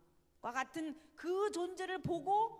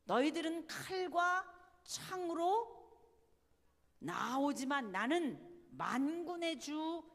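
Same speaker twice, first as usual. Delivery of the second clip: bold, emphatic proclamation to an enemy; David's battle declaration; 2 semitones higher, 4 dB louder than usual. Retold or imitated. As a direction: declaim it like a challenger marching out to fight. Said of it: "다윗이 뭐라 그랬어요?".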